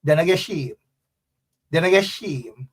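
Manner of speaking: local Guyanese country twang; Guyanese Corentyne twang. Shown as a demonstration. Teaching viewers the saying, Guyanese twang. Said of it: "as we would say in Guyanese quarantine twang".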